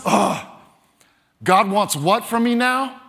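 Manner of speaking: mock exasperated reluctance; grudging. Believer asked by God to give, grudging. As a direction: play a put-upon believer asked to give. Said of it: "like, grudgingly".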